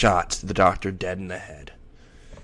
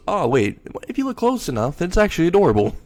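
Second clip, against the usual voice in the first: much higher, gushing coo; cooing Millie; 8 semitones higher, 3 dB louder, faster than usual. Acted. Millie cooing over the baby in her arms. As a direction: melt over a cute baby.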